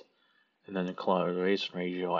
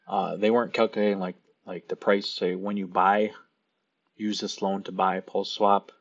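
whistly sibilant s sounds; s sounds whistling through teeth; 5 dB louder than usual. Real, not acted. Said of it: "sorry about the whistling".

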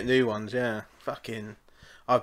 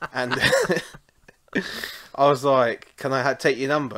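laughing while telling; 6 dB louder than usual. Real, not acted. Asking the barmaid while laughing.

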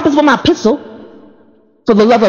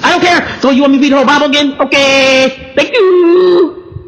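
high and fast, gushing thanks; eager excitement; 6 semitones higher than usual. Pretend. To the mentor handing a hard task, gushing and high. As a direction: cheer every order like a gift.

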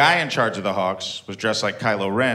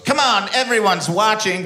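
higher, slow, sly enticing voice; mysterious pirate lady; 10 semitones higher, 3 dB louder than usual. Retold or imitated. Pirate lady tempting the comic for turkey: sly enticing voice. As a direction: lure him in like a sideshow mystic.

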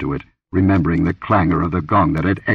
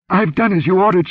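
much higher, louder, panicked gasp; gasping hysterically; 12 semitones higher, 4 dB louder than usual. Acted. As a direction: blurt it out in terror. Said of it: "she gasped hysterically".

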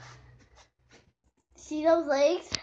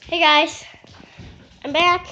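upbeat vlog intro; 7 dB louder than usual. Acted. Vlog intro greeting to camera.

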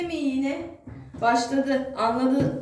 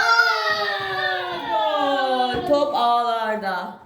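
football commentator; 2 semitones higher, much slower than usual. Pretend. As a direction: call the goal like a commentator. Mother calls the goal.

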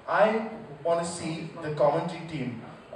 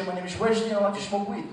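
calm Dutch; faster than usual. Retold or imitated. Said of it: "you're speaking in a very, very calm way".

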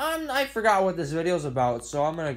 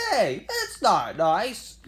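voice crack; slower than usual. Real, not acted. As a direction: voice cracking mid-laugh. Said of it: "voice crack for a second there".

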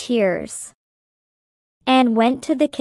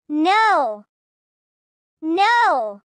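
anguished cry; 5 semitones higher than usual. Acted. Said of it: "she cried".

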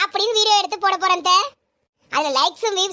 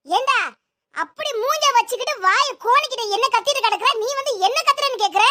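higher-pitched quarrelling; indignant retort; 4 semitones higher than usual. Acted. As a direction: throw the question back indignantly, pitch raised. Acted family quarrel, indignant retort. (கோபமாக எதிர்த்துக் கேட்பது)

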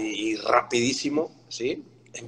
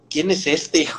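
imitating a surprised, higher "who's this"; mild mock surprise with a laugh; 7 semitones higher, 3 dB louder, slower than usual. (Pilar sorprendido, imitado con risa)

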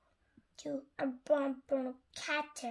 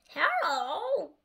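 higher, swooping frog hello; lilting frog character voice; croaking frog; 4 semitones higher than usual. A narrator's reading. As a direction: greet like a storybook frog. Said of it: "it croaked".

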